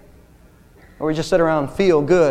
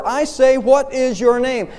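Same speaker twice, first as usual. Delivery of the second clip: narrated imperial rage, higher-pitched; enraged roar; 7 semitones higher, slower than usual. A narrator's reading. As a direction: demand it as a roaring emperor, slowing at the end. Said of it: "with a cry of rage, the emperor roared".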